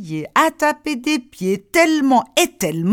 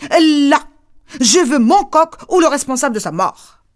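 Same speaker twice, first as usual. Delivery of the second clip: stubborn demand; 3 semitones higher, 5 dB louder than usual. Acted.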